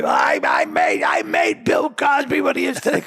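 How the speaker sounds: mock bragging shout, stretched at the start; Robert Culp. Actor boasting about Bill Cosby at the party, hammed-up boast. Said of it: "Robert Culp was".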